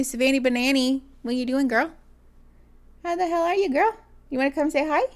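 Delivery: high, cooing dog voice; talking to a puppy. Real, not acted. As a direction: coo at the puppy. Greets puppy coming down hallway.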